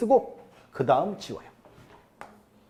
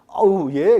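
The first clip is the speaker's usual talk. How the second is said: louder mock reply; retold flustered acknowledgment; 6 dB louder, much slower than usual. Caught-out seller answering the lecturer, louder mock acknowledgment. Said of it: "그분이 한다는 소리가요".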